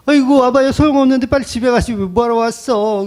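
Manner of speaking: high-pitched performed funeral lament; exaggerated mock wailing. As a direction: wail derisively, as a hired mourner. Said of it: "더 크게 곡을 하는 거예요".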